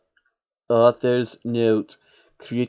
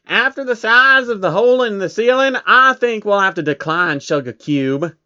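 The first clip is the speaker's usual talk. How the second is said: high, lifted lady voice; a prissy pony turning them down, high-pitched; posh pony voice; 6 semitones higher, 3 dB louder than usual. Acted. Rarity declining, high and prim.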